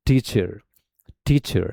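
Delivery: teacher with a long curled R at the end; American R. Shown as a demonstration. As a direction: draw out the final r in "teacher". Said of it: "तो इसको पढ़ेंगे हम लोग कैसे?". (टीचर के अंत में लंबा खिंचा R)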